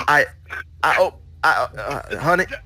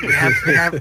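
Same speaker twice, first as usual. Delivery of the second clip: put-on New Jersey accent; 5 semitones higher, 4 dB louder than usual. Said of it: "slipping into, like, a New Jersey accent".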